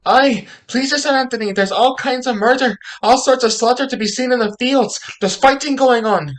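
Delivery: stage panic, stumbling into a rush of words; alarmed report. Acted. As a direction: blurt out the dreadful news. Servant reports bloodshed in alarm.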